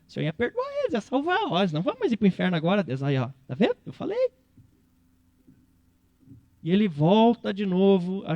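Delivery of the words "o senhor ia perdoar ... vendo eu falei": high, petulant told-you-so whine; whiny Jonas. Retold or imitated. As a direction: sulk like a spoiled child. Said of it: "Daí vai o Jonas ficar desenterrando".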